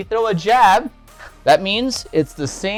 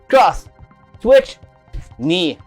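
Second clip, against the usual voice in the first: shouted drill commands; 5 dB louder, much slower than usual. Shown as a demonstration. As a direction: bark out each strike. Calling out combo.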